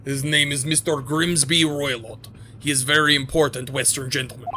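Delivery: put-on Grimsby Roylott said smoothly in Russian accent; name said through. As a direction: finally land Grimsby Roylott cleanly. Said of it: "bad at pronouncing names".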